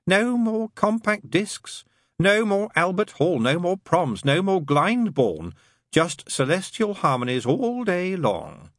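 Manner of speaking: high, slow, drawn-out demon taunt; taunting demon character. Acted. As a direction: rub each loss in, stretching the words.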